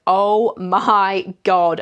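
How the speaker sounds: drawn-out, word-by-word disbelief; retold dismay. Patient hearing she's one centimeter dilated, slow dismay. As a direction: stretch every word in mock dismay.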